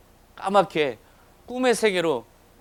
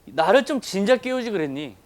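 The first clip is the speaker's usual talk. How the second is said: mildly raised, chiding quote; imitated reproach with a touch of exasperation; retold scolding; 4 semitones higher, 6 dB louder than usual. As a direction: scold lightly, a little higher and louder. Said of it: "라고 호통치신 게 아니라".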